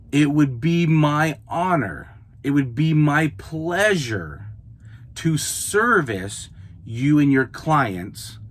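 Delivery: slow, gracious and polite; courteous email voice; service voice. Shown as a demonstration. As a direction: offer your help humbly, slowly. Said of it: "That's how I talk".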